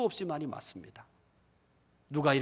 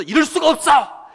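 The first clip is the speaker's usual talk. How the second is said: much higher, loud shout of disbelief; mock outcry; 12 semitones higher, 15 dB louder than usual. Preacher mocking the boast of strong faith with a big shout. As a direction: burst out as if it could never happen.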